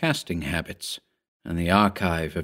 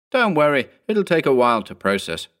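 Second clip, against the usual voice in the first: lightly raised, soothing tone; peculiarly reassuring; 6 semitones higher than usual. A narrator's reading. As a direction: reassure him as if nothing's wrong. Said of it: "in a peculiarly reassuring tone of voice".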